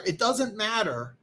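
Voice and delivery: slow and deliberate. Shown as a demonstration. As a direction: let "doesn't" sink in slowly. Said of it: "repeats the phrase more slowly".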